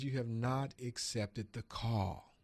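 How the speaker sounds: slow, solemn pronouncement; lightly voiced God, slow and grave. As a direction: deliver it slowly like a divine verdict. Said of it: "He says".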